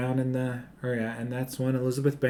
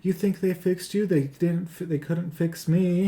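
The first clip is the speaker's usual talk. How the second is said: higher-pitched mock yell of a patient; lightly hammed-up patient's outburst; yelling patient, imitated; 6 semitones higher, 5 dB louder than usual. Patient yells at the girl leaving, mock yell. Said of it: "another patient yells at her".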